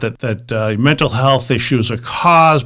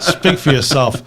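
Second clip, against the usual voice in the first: laughing retort; slower than usual. Real, not acted. Joking retort repeated, laughing.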